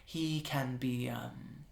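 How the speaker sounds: quiet, apologetic archmage; a hint of Adoration. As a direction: softly excuse your companion.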